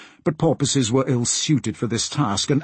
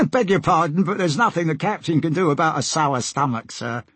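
lightly voiced sailor, pitched up; sailor character; 4 semitones higher than usual. Sailor puts off passenger about sour stomach, sailor voice. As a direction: deferential deckhand with a hidden smile.

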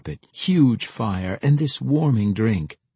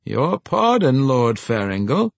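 calling from the door; 4 semitones higher, 5 dB louder than usual. A narrator's reading. Steward interrupts his lord from the door, calling in. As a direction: cut in politely from across the room. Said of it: "came Temagast's voice from the door".

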